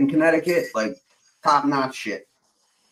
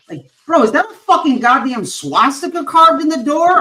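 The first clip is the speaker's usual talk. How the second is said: retold shock; 11 semitones higher, 5 dB louder than usual. Retold shock at swastika find.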